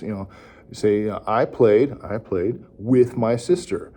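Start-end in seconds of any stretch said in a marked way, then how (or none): 1.2-3.9 "I played", pause, then "with my sister"; broken into chunks. Shown as a demonstration. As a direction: model it in pieces for a child to repeat. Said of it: "break it down into chunks".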